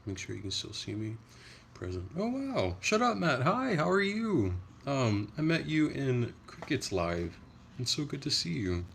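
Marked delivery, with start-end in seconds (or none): 2.2-8.9 high-pitched, delighted hello with stretched words; excited greeting. Real, not acted. Streamer spots a familiar viewer joining the live, excited greeting.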